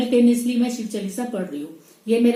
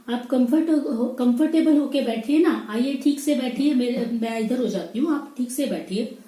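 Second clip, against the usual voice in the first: sweet invitation; 3 semitones higher than usual. Retold or imitated. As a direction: mimic a kind lady offering the seat. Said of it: "बड़े ही warm से मुझे smile दिया". (प्यार से, मीठी आवाज़ में बैठने को कहना)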